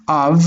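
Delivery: Av as one closed short syllable; syllable cut off. Shown as a demonstration. Teacher cutting the word after Av, a short closed syllable. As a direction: stop Av right on the v. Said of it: "let's cut this one right there".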